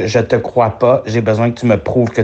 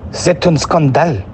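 tentative mock German accent; 4 semitones higher than usual. Learner copies the coach's test line, tentative German accent. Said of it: "J'ai jamais essayé de faire l'accent allemand".

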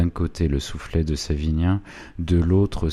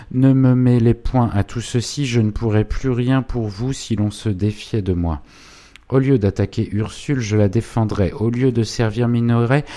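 higher, louder, fast furious tirade; vengeful clerk; 6 semitones higher, 6 dB louder than usual. A narrator's reading. Goupil swearing revenge on Minoret to Savinien, higher and louder. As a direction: spit out revenge on his old master.

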